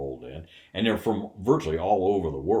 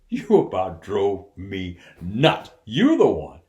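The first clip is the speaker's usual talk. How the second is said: exasperated outburst; 8 dB louder than usual. Retold or imitated. Mark confronts the prankster.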